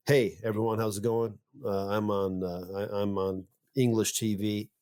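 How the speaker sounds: casual American greeting with hesitations; American accent. Acted. Inventor giving a sample recording, American accent. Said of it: "if you said, like".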